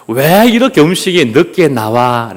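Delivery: mildly grumbled complaint; mock complaint. Diner over late food, mildly complaining. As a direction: act out a light grumble. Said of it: "라고 불평합니다".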